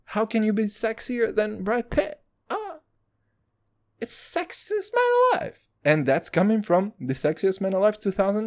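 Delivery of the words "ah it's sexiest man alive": much higher, dreamy swoon; swooning falsetto. Acted. Swooning over Brad Pitt, high starstruck falsetto. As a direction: gush like a starstruck fan.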